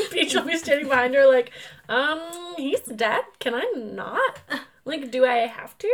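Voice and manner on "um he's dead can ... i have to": put-on bored Valley Girl reluctance; Valley Girl accent. Princess Peach at the grave, bored Valley Girl accent. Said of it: "Valley Girl accent".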